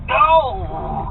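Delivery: high, loud terrified plea; begging scream. A narrator's reading. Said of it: "the toady begged".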